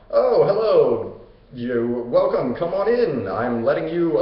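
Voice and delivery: drawn-out mock welcome, lilting up; Hades. King of the afterlife greets a living intruder, falsely welcoming. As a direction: play a falsely gracious host, stretching the greeting. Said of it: "So Hades, the guy who".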